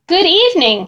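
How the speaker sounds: high, smooth, silky monster greeting. Acted. Monster Ralph greets the boy in a high silky voice. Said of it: "he said in a high, silky voice".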